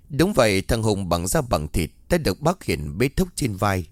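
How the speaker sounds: plain reading voice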